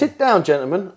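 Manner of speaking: high, bossy mock command; commanding order. Telling the other guys to sit, bossy command. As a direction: lord it over the rivals. Claiming first turn over rivals.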